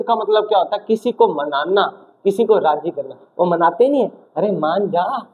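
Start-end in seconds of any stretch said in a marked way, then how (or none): 4.4-5.3 mild mock coaxing; lightly acted plea to give in. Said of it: "जैसे ये मना रहा है".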